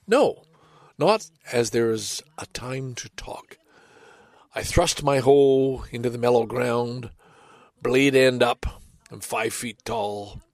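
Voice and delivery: measured reading with pauses at line ends; unhurried poem reading, one shouted question inside; poem recital. A narrator's reading. Reads a Frost poem aloud.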